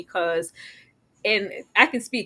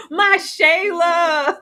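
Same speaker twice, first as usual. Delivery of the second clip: stammering gush; 9 semitones higher, 5 dB louder, much slower than usual. Retold or imitated. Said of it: "Shannon D said".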